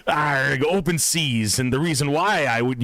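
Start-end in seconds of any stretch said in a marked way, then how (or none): 0.1-1.6 light pirate growl, Arg. Pretend. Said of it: "pep talk in a pirate voice".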